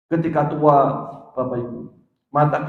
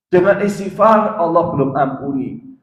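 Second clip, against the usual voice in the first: louder and higher, emphatic; emphatic preaching; 4 semitones higher, 6 dB louder than usual. Real, not acted. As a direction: drive the phrase home from the pulpit.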